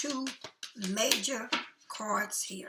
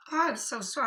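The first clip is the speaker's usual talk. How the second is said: apology stretched through a yawn; talking mid-yawn, words pulled out of shape; 4 semitones higher, 6 dB louder than usual. Real, not acted. Reader yawning during the card reading, words dragged by the yawn. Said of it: "I don't know why I'm yawning like this".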